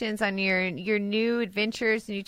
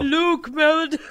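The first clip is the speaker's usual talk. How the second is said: excited mock announcement; 9 semitones higher, 7 dB louder than usual. Real, not acted. Teasing the name.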